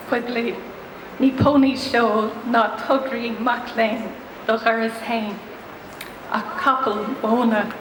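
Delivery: measured Irish poetry reading with pauses between lines; poem recitation. Acted. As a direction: read it out as verse, phrase by phrase. Reads second poem in Irish.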